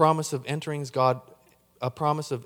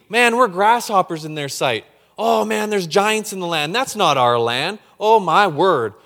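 fearful Israelites; 3 semitones higher, 7 dB louder than usual. Acted. Acting frightened Israelites.

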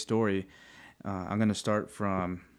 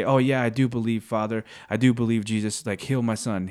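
mock easy agreement, pushed at first; glib assurance. Father asking Jesus to heal his son, glibly sure. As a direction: agree too readily, as if skipping the doubt. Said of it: "he didn't just say".

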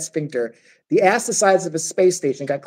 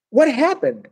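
startled hobbit; 9 semitones higher, slower than usual. Acted. Hobbit waking up from nightmare.

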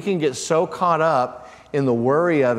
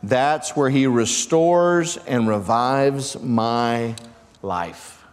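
slow scripture reading; much slower than usual. Acted. Reading Passion Translation slowly.

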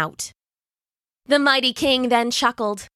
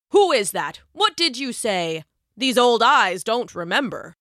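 feigned feeble lion. Acted.

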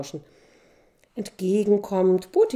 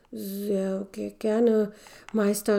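put-on higher, stammering young man; stuttering; 4 semitones higher, slower than usual. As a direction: trip over the words nervously. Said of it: "stotterte der junge Mann".

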